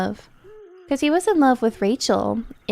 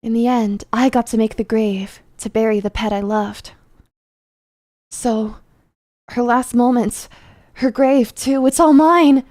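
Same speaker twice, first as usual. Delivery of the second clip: lightly voiced gravekeeper, building louder; 4 dB louder than usual. Gravekeeper claiming the grave of a beloved pet, possessive, building. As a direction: start measured, swell into a possessive outburst.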